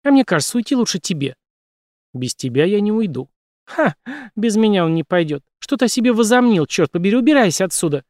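high, mocking, angry retort; mock his words, then chase him out; scornful anger. A narrator's reading. Jane mocking Brace and driving him out, scornful.

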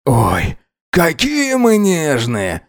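high, drawn-out mocking coo; contemptuous snort. A narrator's reading. Alex sneers at his lover's hurt, contemptuous mockery. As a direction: stretch it out high in scornful mockery. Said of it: "Алекс фыркнул, презрительно глядя на него".

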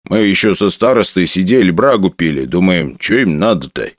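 lightly voiced old village forester; rustic old forester.

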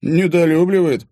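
loud, slow, amused scoff; old man scoffing at the word; chuckling scoff. A narrator's reading. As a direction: chuckle at the understatement. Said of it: "хохотнул".

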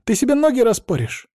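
high panicked squeal; shrieking. Acted. Maryana shrieking at her friend about her feet, alarmed. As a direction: shriek the danger out. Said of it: "взвизгнула Марьяна".

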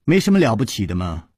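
a snicker, then breezy mockery rising high; amused teasing. A narrator's reading. Song Tian'er joking about the vinegar palace's master, amused. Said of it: "宋田儿扑哧一笑说".

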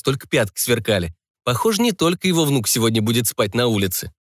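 ordinary delivery, nothing marked

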